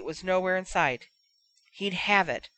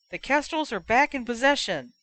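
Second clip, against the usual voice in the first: lightly voiced commentator; 5 semitones higher than usual. Match commentator voice.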